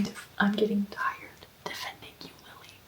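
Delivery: hushed whisper while reading a book late at night. Real, not acted.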